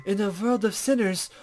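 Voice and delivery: a hint of a coy, teasing sage; lightly voiced mysterious guide.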